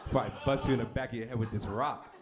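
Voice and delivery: mock threat in a rough attempt at an African accent; badly faked African accent; horrible African accent. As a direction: deliver a comic threat with a poor African accent. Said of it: "that's a horrible African accent".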